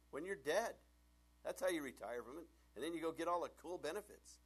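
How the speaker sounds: emphatic punchline. Retold or imitated. Pastor's punchline, louder.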